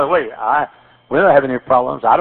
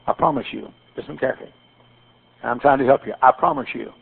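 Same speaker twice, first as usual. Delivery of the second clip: quiet, lowered preacher's aside; hushed earnest counsel; 5 semitones lower, 6 dB quieter than usual. Real, not acted. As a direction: drop low and soft. Preacher drops to confiding counsel.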